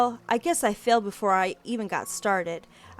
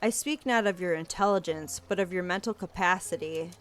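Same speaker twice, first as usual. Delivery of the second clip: put-on stern older detective. Different grave character speaks.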